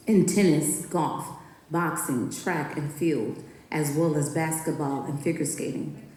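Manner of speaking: poem performance. Acted. Reading her poem about women athletes to listeners, performed. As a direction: perform it like a tribute on stage.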